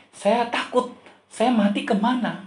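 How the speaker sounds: high-pitched anxious confession; acted worried questioning; retold fear. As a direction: voice an uncle's dread, pitched well up. Uncle confesses fear of death.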